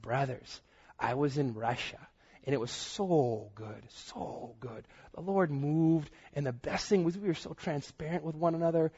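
lightly mimicked northern Michigan accent; funny Michigan accent. Friend back from Russia addressing the brothers, light northern Michigan accent. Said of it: "He has a, a funny accent like this".

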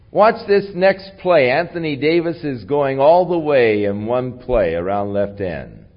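high, loud start, easing down to the end; carrying voice. Retold or imitated. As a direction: call the play confidently so it carries. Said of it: "of course my voice carries".

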